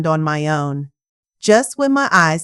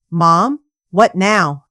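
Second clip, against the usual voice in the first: flat, irritated; 3 dB louder, slower than usual. Acted. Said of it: "His tone was flat, irritated".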